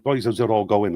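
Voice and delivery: put-on British regional accent. Shown as a demonstration. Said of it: "transition from moving to a Cockney accent".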